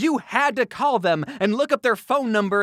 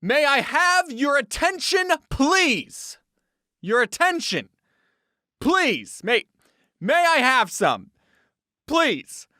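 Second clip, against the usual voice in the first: pleading announcer; 4 semitones higher, slower than usual. Acted. Begging for attention.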